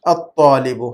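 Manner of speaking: الطالب with laam silent and T doubled; assimilated article. Shown as a demonstration. Teacher recaps the rule, الطالب with doubled T and no L. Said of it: "لام کی آواز کو ختم کر دیں گے".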